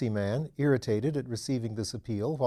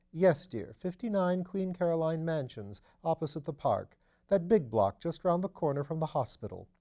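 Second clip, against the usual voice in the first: lightly voiced duchess, amused and chatty; mother describing the body, lightly voiced chatty duchess; gossiping duchess; 3 semitones higher than usual. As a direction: share the scandal with mild amusement.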